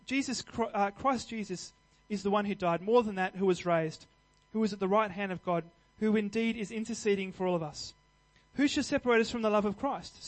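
scripture reading. Acted. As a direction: read the passage like a proclamation. Reads Romans 8 aloud.

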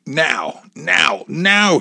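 high-pitched, insistent command; urgent order. A narrator's reading. Gunman ordering hostage to the door, urgent command. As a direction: order it with mounting force on each now. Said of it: "he ordered Amy".

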